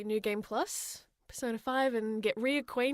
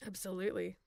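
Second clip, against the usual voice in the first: normal talking voice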